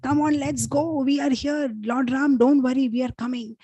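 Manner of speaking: acting out a worked-up king rallying help; retold rousing outrage. King rousing soldiers to rescue Sita, retold indignant call. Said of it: "again, King Kulashekar, he gets up".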